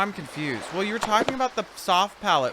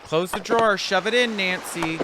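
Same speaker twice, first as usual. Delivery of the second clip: bossy shout; 5 semitones higher, 4 dB louder than usual. Pretend. Bossing the player around.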